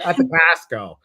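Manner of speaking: put-on a light Chicago accent, saying "At the Costco" with "the" put before the store name; a Chicagoan casually adding "the" in "At the Costco". Host mocks her own Chicago habit with a light Chicago accent. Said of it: "that Chicago accent comes out".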